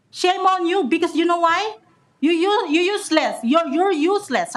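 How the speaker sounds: heated public rebuke; real anger. Real, not acted. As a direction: scold them with genuine indignation. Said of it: "I'm really, really angry right now".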